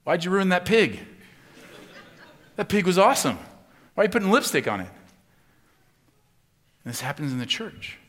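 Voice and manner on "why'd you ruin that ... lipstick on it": higher, louder mock outrage; playful disbelief at the ruined pig; indignant. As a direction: protest with a laugh in the voice. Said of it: "looks at it and goes".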